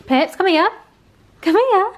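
high, loud call across the room; calling the bunny. Real, not acted. Owner calling her bunny over, loud high call.

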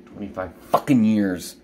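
low, held-in bitterness; real exasperation, kept down; bitter exasperation. Real, not acted. Venting over twenty-five years of pain.

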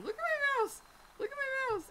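high, loud frustrated cry; exasperated outburst. Real, not acted. Streamer fed up with his jumping mouse, exasperated shouting. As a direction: vent at the glitching mouse.

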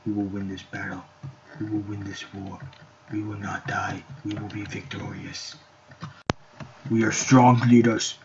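hammed-up war leader, building; mock leader speech. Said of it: "why am I talking like this?".

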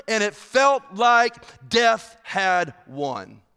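each phrase slow and weighty; slow dramatic preaching. Acted. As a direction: build to the darkness, slowly.

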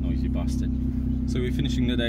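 shouting over machinery. Real, not acted. Still talking over the engine.

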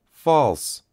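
a high, loud cry from the crowd; high shouted echo. A narrator's reading. A crowd member echoes the denial with a loud cry. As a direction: yell it back from the crowd. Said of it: "echoed someone in the crowd".

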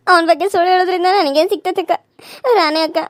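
ರಾಣಿ ಅಕ್ಕ said with a catch of crying; wife pleading with her friend, tearful; tearful plea. Acted. Troubled wife pleads through tears.

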